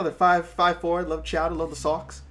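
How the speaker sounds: put-on Boston accent; mock Boston local accent. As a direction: play a Boston sports fan, accent and all. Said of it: "I absolutely hate the Boston accent".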